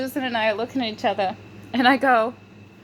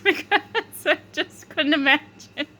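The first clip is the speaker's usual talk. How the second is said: higher voice dissolving into giggles; breaking into laughter; 6 semitones higher than usual. Real, not acted. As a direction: lose it as the sentence ends. Starts laughing at own story.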